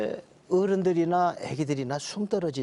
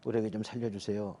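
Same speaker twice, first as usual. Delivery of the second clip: one slow prayer; 7 semitones lower, 5 dB quieter than usual. Retold or imitated. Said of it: "이렇게 하니까 무슨 삼 초도 안 걸리더라고요".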